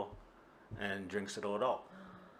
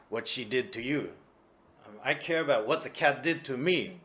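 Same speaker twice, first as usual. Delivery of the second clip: put-on drunken insistence; 2 semitones higher, 8 dB louder than usual. Kuma insists on complaining.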